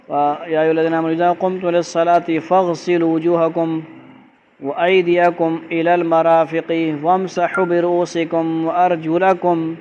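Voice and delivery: careful recitation, slowing toward the end; Quranic recitation. Shown as a demonstration. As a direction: recite the Arabic verse word by word, stretching the final phrases.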